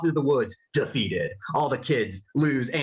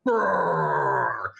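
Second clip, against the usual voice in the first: narrator's mild mock roar; spoken monster roar effect; voiced beast roar. A narrator's reading. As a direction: roll out a rumbling "brrr" as a roar. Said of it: "roaring with rage".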